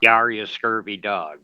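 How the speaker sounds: a light pirate growl of yar. Pretend. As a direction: play it as a hammy pirate. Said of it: "speak a little more like a pirate".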